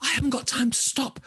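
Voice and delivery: put-on high, rushed young heroine; quick and high, no time to stop; hurried. Hurried Olga's thought, in story.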